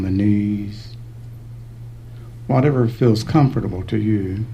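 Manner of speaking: unhurried meditation guidance with long pauses; calm, spacious meditation voice; guided meditation. Real, not acted. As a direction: guide them gently through the body, leaving space between phrases.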